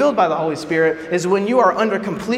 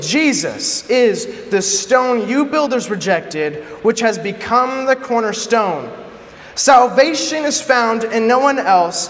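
forceful scripture reading. Acted. Preacher reading Peter's defiant speech to the rulers, proclaiming. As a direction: proclaim it like Peter before the council.

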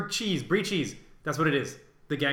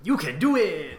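cheering; 2 semitones higher, 7 dB louder than usual. Pretend. Cheering each other on.

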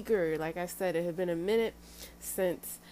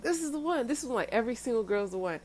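higher, quick mock-excited quote; eager lover; 5 semitones higher, faster than usual. Imitating a lover who falls for every girl, mock-excited. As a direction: gush it fast, as if smitten every time.

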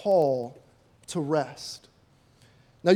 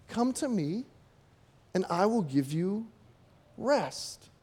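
gentle invitation; 4 dB quieter than usual. Shown as a demonstration. Preacher quoting Jesus' true words after a mock version. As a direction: offer rest gently. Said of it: "Jesus says".

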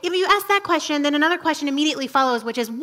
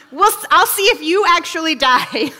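mock Adam, laughing and louder; laughing through it; 3 semitones higher, 6 dB louder than usual. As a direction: giggle while offering Eve the fruit.

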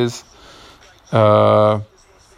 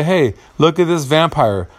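mock bat-eater; 6 semitones higher than usual. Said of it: "Why the fuck does someone want to say".

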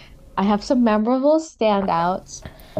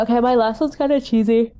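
yawning through the words. Real, not acted. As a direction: talk mid-yawn. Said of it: "I'm yawning".

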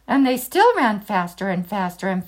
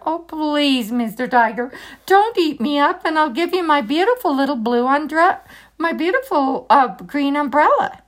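high, pleading voice; pleading boy; 4 semitones higher than usual. Acted. Ramakrishna begs the tiger not to eat him, high pleading. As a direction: beg the tiger, voice up.

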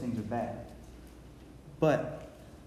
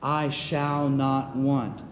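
slow recitation; slower than usual. Shown as a demonstration. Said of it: "Read it with me".

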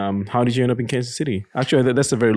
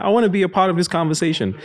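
voicing the cat; 9 semitones higher, faster than usual. Host voicing the cat wanting to join the podcast in a high voice. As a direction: speak for the cat who wants in. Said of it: "She's like".

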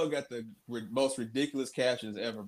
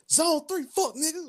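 mock Chief. Joining the Chief impression.

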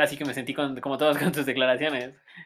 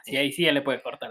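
ordinary delivery

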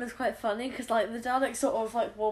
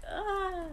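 mock cry; 7 semitones higher, 5 dB quieter than usual. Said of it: "she's like".

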